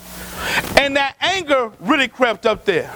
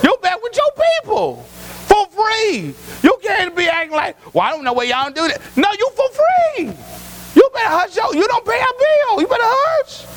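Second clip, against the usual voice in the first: a hint of a stern parent scolding a grown child, pitched higher; mock-scold a grown kid living at home; 5 semitones higher than usual. Parent scolding an adult child back home, mock-stern.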